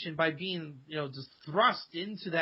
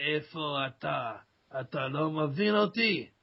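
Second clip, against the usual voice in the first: redneckish Sfat Hebrew; 4 semitones lower than usual. Shown as a demonstration. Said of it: "very kinda, like, redneckish".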